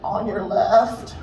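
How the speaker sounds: slow polite passerby. Retold or imitated. Older couple passing.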